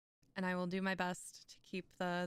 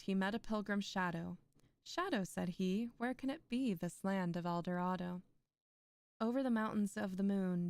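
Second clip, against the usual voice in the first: measured, expressive poem reading; poetry recital. A narrator's reading. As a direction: recite the verse with lilting line openings. Reads poem aloud.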